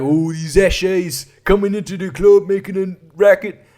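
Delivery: mock a complaining club doorman; grumbling local. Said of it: "They're like".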